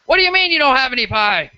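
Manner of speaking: high, indignant mom voice; mother at the counter asking why there's no pie; outraged mother. Acted. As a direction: demand it like an offended customer mom. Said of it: "the mother going".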